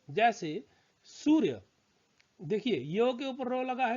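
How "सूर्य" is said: सूर्य said slowly, with the र sound before य; teacher modelling सूर्य slowly; slow demo word. Shown as a demonstration. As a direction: draw out सूर्य, putting र before य. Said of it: "वर्ण से पहले रो का उच्चारण होता है".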